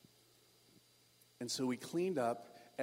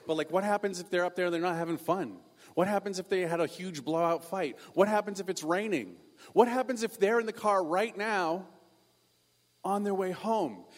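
worried questions climbing higher and louder; mounting panic; 4 semitones higher, 3 dB louder than usual. Acted. Younger brother fretting that parents are driving home, rising panic. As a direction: pile up the what-ifs, building in alarm.

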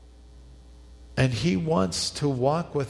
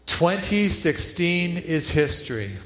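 "Twenty sixteen is history" called out higher and slower; louder, slower congregational response; 5 semitones higher, slower than usual. Shown as a demonstration. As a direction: lead the room in declaring it.

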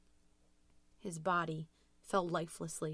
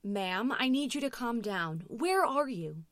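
firm call-taker, lifting higher on the question; urgent dispatcher; 5 semitones higher, 4 dB louder than usual. A narrator's reading. Dispatcher trying to calm Louise, firm and urgent. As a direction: take control of a panicked caller.

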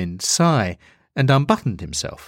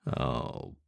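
a low, sighing oh; weary sigh; 10 semitones lower, 14 dB quieter than usual. Acted. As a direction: let the word sink into a tired sigh. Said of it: "The devil sighed in between glugs".

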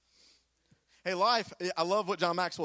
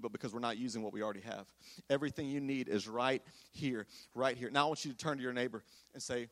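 quiet preaching; 9 semitones lower, 5 dB quieter than usual. Acted.

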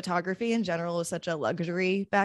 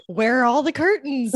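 mock alarmed shout; 8 semitones higher, 10 dB louder than usual. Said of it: "And Grace is like".

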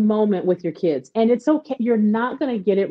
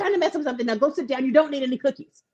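fast, nagging scold; mock scolding; 4 semitones higher, faster than usual. Mother imitating her old self scolding her son, fast.

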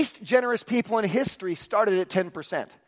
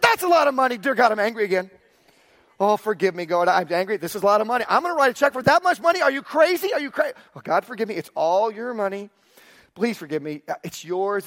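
louder, higher, torn between anger and sorry; frantic prayer; 4 semitones higher, 3 dB louder than usual. Retold or imitated. Pastor reliving his angry prayer to God, frantic. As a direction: plead with God while fighting yourself.

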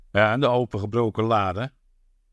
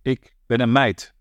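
louder, slower shout of ik ben een meid with meid stressed; called out; 4 dB louder than usual. Acted. Panoli calls out to the commissioner, slow and loud. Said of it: "riep Panoli".

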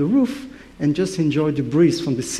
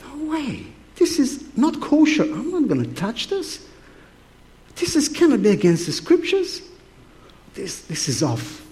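high shocked protest; 9 semitones higher than usual. Retold or imitated. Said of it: "Peter refusing unkosher food".

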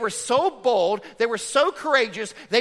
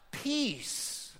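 much softer, hushed "Peace"; soft answer; 4 semitones higher, 10 dB quieter than usual. Real, not acted. Preacher answering his own question, hushed. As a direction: let the word land gently.

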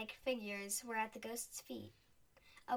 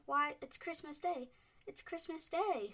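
high, loud, thrilled; excited; 5 semitones higher, 5 dB louder than usual. A narrator's reading. The boy and Scrooge exclaiming it is Christmas Day, thrilled. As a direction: burst with delight at the news. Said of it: "replied the boy".

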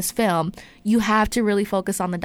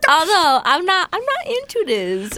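mock scared; 7 semitones higher, 4 dB louder, slower than usual.

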